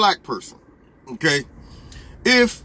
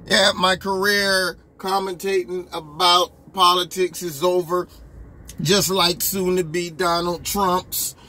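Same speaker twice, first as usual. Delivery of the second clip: slow, lightly voiced self-pitying anchor; mocking anchorman. Anchorman announcing he quits, slow mock self-pity. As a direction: drag it out like a sulking pundit. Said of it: "One anchor man was talking about he's quitting".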